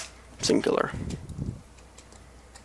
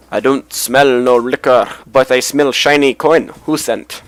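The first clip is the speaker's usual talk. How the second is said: lightly voiced slow, greedy guard; bribable bodyguard; 6 dB louder, slower than usual. Game player voicing a guard sniffing for coin, slow light character voice. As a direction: draw the words out a little, as a guard after a bribe.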